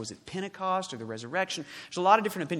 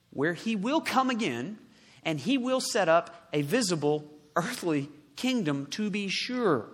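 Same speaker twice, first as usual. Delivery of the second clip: raised, emphatic preacher's voice; forceful preaching; 2 semitones higher, 6 dB louder than usual. Acted. Preacher announcing the coming kingdom, forceful. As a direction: proclaim it firmly, phrase by phrase.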